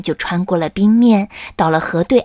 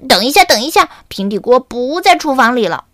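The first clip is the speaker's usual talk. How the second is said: higher, urgent call; a lightly voiced chick calling wait; calling her back; 3 semitones higher than usual. Spiky calls Carmen back, higher and urgent. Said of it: "叫住卡门".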